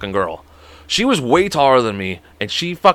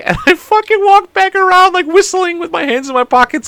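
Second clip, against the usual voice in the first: laughing while talking. Real, not acted. Laughing while telling own move.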